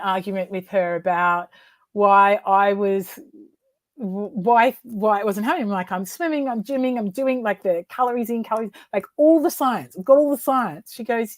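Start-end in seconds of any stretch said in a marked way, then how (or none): 5.9-10.9 exasperated protest. Retold or imitated. Retold argument with her mentor.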